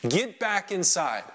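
mild acted yell. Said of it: "so I just yelled at them".

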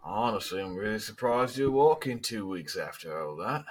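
lightly voiced tough guy; a hint of a smug gangster, needling a rival; mocking gang leader. Gang leader needles Abner at the bar, lightly mocking. Game master voices Joel.

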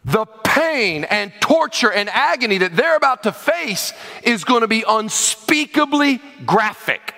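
slow, emphatic warning; menacing threat. Acted. Envoy threatening a besieged city, slow and menacing.

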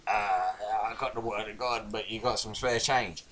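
begging preacher. Retold or imitated. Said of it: "He was there going".

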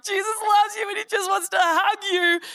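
high, loud, gushing mock worship leader. Preacher mimics a bawling worship leader, high and gushing. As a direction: ham up the over-emotional worship leader.

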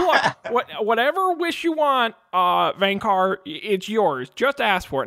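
exasperated genie, lightly voiced. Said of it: "It's a little bit like this".

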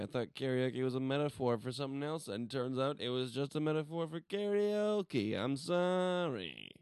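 a silly character voice, hammed up; weird voice. Podcast host goofs off in a weird voice to his co-host. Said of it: "can you stop with the weird voices".

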